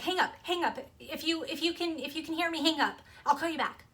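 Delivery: mildly frantic retold orders, tripping over the words; panicked. Mom telling her child to hang up, panicked. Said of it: "she sounds really, really panicked".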